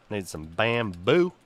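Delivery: normal talking voice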